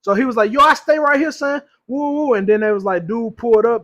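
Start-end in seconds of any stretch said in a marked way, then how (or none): 0.5-2.3 put-on higher-pitched New York accent; mock New York slang delivery. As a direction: imitate a New Yorker showing off. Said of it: "my New York accent".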